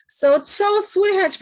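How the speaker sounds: slow, clear model of "co słychać"; Polish co słychać. Shown as a demonstration. Teacher modelling "co słychać" for the class, slow and clear. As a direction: say "co słychać" slowly, stress on "co".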